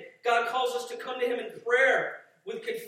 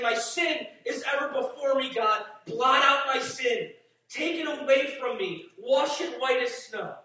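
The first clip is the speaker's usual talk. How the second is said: loud, high pleading cry to God; desperate plea; 4 semitones higher, 6 dB louder than usual. Acted. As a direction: cry out as if begging for mercy. Voices David's desperate plea.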